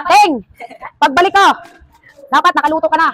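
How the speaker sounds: calling out the note like a scolding mum; mock bossy note. Reading out the note left on the door as a mild mock order. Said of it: "Ang message na, pag meron kang iiwan sa pinto, ganito".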